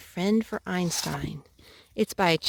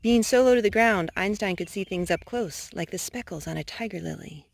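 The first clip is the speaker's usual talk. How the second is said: gentle storybook narration; reading to children. A narrator's reading. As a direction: read it like a bedtime story. Reads picture book to child.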